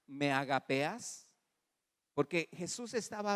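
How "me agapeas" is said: slow teaching line. Acted. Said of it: "le voy a decir como Jesús le diría".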